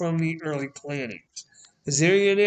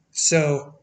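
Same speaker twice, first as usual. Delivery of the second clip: yawning through the word; 3 semitones lower than usual. Real, not acted. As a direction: say it mid-yawn. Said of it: "I had a yawn there".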